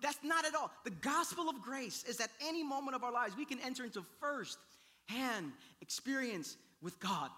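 forceful preaching. Real, not acted. Pastor explaining grace to congregation, forceful preaching. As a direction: preach it loud and high.

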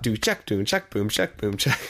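beatbox a stomp and clap with boom and check; spoken drum beat, boom on the stomp and check on the clap; a casual mouth-made stomp-clap rhythm. Shown as a demonstration. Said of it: "there's a little stomp clap".

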